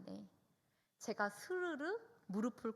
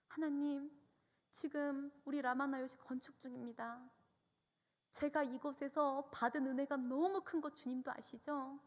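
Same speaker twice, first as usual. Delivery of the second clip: retold prayer in a higher voice; pleading prayer; 4 semitones higher than usual. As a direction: petition God earnestly, pitched up. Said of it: "저는 이 소원을 주님께 구했어요".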